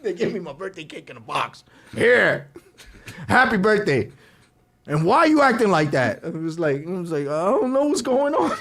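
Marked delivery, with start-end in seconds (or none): 1.9-6.2 loud, raised retold irritation; annoyed family. Sleepy family handing late drunk his cake, annoyed. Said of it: "Everybody's mad at me". 7.3-8.5 high-pitched mock confusion; bewildered drunk. Drunk birthday boy answering family, mock bewildered.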